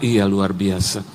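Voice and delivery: low, slow stalling reply; covering breathlessness. Retold or imitated. Winded pastor stalls his young guide, low slow feigned awe. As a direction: drag out the agreement while secretly catching breath. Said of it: "saya lagi atur nafas".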